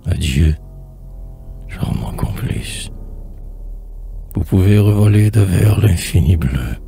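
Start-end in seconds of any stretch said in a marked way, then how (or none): 1.7-2.9 soft, slow, whispery verse; hushed tender farewell. Acted. Poet bids adieu to a charming accomplice, hushed and slow. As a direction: let the goodbye sink low and slow.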